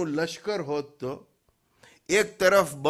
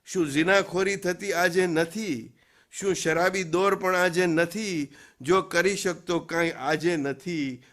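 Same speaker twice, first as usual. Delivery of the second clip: rhythmic run of rhetorical questions, easing off at the end; poem recitation. Acted. Preacher voices poet's challenge about today, poem recitation. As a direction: declaim the poet's challenge line by line.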